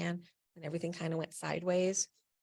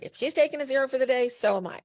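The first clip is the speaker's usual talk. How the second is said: defiant protest; 7 semitones higher, 6 dB louder, faster than usual. Retold or imitated. Friends protesting the coach.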